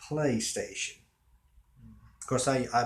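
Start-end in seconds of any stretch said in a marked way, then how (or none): 0.1-1.0 PlayStation drawn out deliberately; stretched-out "PlayStation"; slow word. Shown as a demonstration. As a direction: say PlayStation slowly, weighing each part. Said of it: "slowly and think about the word".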